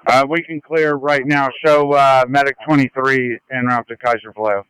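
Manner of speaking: crackly radio transmission; over a handheld radio; ambulance radio. Real, not acted. Medic crew reporting over radio.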